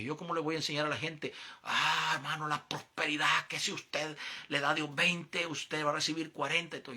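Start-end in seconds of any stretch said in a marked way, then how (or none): 1.6-6.8 lightly voiced mock preacher pitch; mocking prosperity preacher. Mocking a prosperity preacher promising returns, slowed and raised. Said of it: "eso es mentira".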